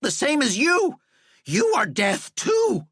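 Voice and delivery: high, slow frantic shout; panicked shout. Acted. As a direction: shout it in terror. Walter keeps accusing.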